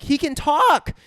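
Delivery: high, loud mock-excited little girl; Drew. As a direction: blurt it with acted amazement. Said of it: "Drew is like".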